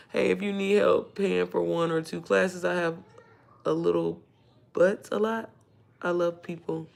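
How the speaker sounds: soft, slow read-out; reading a comment aloud. Real, not acted. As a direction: read it off the screen quietly, slowly. Reads a viewer comment aloud.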